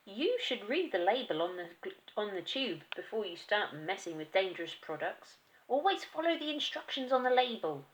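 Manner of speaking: loud, preachy wife; the wife scolding her husband; nagging wife. Acted. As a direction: lecture him loudly. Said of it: "said to him".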